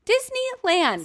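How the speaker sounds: booming prize announcer. Acted. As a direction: announce the prize like a game show host.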